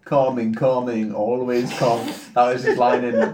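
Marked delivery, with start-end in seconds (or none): 0.1-2.1 put-on drawn-out Dracula-style accent; slow, lightly Dracula-like accent; Dracula-like impression. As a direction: say it like a mock Dracula. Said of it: "like, Dracula".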